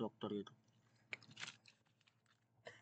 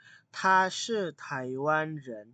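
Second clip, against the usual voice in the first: slow, careful Mandarin example; slow model sentence; 2 semitones higher, 4 dB louder, much slower than usual. Shown as a demonstration. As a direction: say it slowly for students to copy. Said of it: "Contoh kalimat misalnya". (contoh kalimat dibaca pelan)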